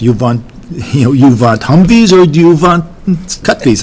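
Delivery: light imitation of a Dutch accent, w as v. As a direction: mimic the Dutch officer's English, want as vant. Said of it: "in his Dutch accent".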